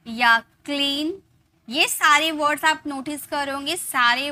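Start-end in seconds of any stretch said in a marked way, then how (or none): 0.4-1.2 क्लीन drawn out on the ee; pronunciation model. Shown as a demonstration. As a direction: model क्लीन slowly with a long ee. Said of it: "इसकी pronunciation की जाएगी". (क्लीन में खिंची हुई ई)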